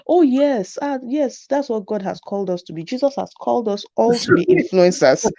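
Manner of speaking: mock a preachy mother; a hint of a pious mother; mimicking mom. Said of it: "My mom will say".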